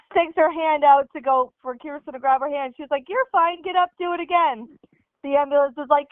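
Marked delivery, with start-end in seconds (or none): 3.1-4.7 tough mom. Retold or imitated. Cheer-coach mom dismissing injury.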